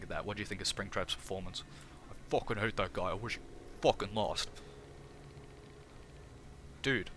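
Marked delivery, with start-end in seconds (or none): 2.1-7.1 lightly voiced sweary character; a hint of a grumbling sidekick; Fredbear. Fredbear judging Springtrap's performance, lightly voiced grumbling character. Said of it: "Hey, Fredbear, what do you think".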